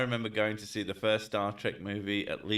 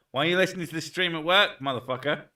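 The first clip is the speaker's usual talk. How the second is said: higher, louder, quickfire mock scolding; mock outrage; 6 semitones higher, 4 dB louder, faster than usual. Streamer scolding a viewer for listening at work, mock outrage. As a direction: demand it in playful outrage.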